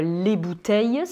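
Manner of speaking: "bouteilles" with the silent S sounded as a hiss; pronounced final S. Shown as a demonstration. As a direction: say "bouteilles" with an audible S at the end. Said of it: "je n'ai pas besoin de dire". (« bouteilles » avec le S final prononcé)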